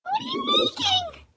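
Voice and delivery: squeaky high-pitched whine; high whiny cry. Real, not acted. Can't follow the painter's colors.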